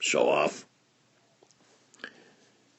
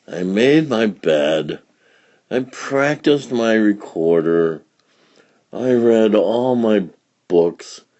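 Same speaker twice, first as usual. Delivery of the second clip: bored whine; 4 dB louder, slower than usual. Acted. Bored child listing chores.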